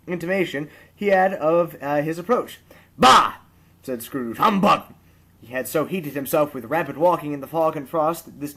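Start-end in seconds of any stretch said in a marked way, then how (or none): 3.0-3.3 loud contemptuous bark; grumpy old miser scoffing; scoffing bah. A narrator's reading. Scrooge scoffs at nephew. 4.4-4.9 loud contemptuous bark; grumpy old miser scoffing; scoffing bah. A narrator's reading. Scrooge scoffs at nephew.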